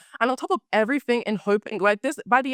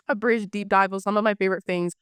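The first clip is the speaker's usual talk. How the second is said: hoarse voice. Real, not acted. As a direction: let the husky rasp creep in. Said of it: "the sexy voice is back again".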